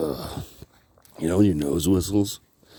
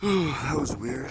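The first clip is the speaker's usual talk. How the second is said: whisper; 5 semitones higher, 5 dB quieter, slower than usual. Real, not acted. Talking to himself after bee.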